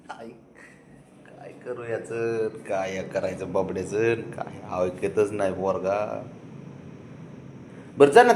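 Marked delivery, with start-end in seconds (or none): 0.1-6.2 low, soft and slow grumble; weary lament. Real, not acted. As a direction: sigh it out slowly, half to yourself. Despairing over pet not listening.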